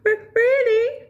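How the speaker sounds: high, loud hopeful stammer; can't believe his luck; stammering disbelief. Acted. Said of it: "said Alan".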